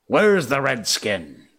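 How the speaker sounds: slow, loud, pointed demand; abrupt demand. Acted. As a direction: bark the question at his men. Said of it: "he demanded abruptly".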